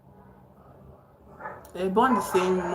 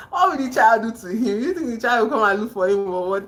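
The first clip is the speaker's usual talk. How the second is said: laughing through a mocking question; 3 semitones higher than usual. Real, not acted. Reader mocking the plot to viewers, laughing. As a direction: scoff at the plot while laughing.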